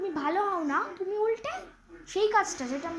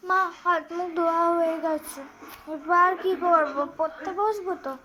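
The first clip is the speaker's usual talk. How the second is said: put-on child calling out; 5 dB louder than usual. Daughter calls loudly to mother from another room. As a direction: call for mum from another room.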